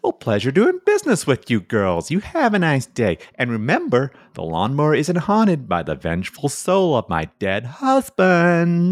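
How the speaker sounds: put-on high, cheery old-lady farewell; sugary widow waving the girls off; sweet old widow. Widow says goodbye.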